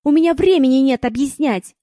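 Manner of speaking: loud impatient bark. Acted. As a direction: snap at a dimwit. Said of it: "рявкнул он".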